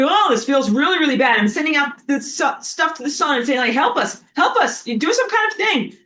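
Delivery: mock pleading. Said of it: "then you're like".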